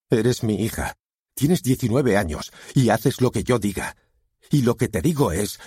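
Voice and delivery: stern, heated command; authoritative father. A narrator's reading.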